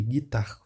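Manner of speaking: "guitar" ending right on the R; silent final E. Shown as a demonstration. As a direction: stop "guitar" at the R, no U or E sounded. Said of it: "só vai ficar até aqui".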